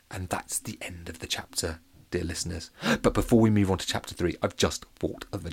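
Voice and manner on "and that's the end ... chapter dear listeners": soft whispered aside. Real, not acted. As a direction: whisper the chapter's end to the listeners.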